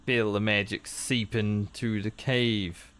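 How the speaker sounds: slow, lightly voiced villain taunt; a hint of a gloating evil sorcerer; evil NPC voice. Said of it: "He's a very evil N P C".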